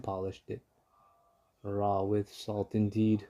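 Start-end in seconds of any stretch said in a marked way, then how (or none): 1.6-3.3 muttered. Acted. Dentist grumbling about the fox's dream, slow mutter. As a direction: mutter it sourly to yourself. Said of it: "muttered Doctor DeSoto".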